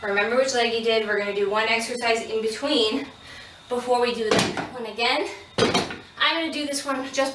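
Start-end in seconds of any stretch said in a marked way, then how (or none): 0.0-5.3 shaking with effort. Real, not acted. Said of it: "'cause my legs are shaking".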